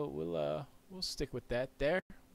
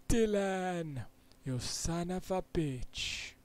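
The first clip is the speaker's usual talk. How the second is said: shouting; 7 semitones higher, much slower than usual. Real, not acted. Streamer yelling at Dylan in mock anger. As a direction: yell it with mock fury. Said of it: "Sorry if I'm yelling".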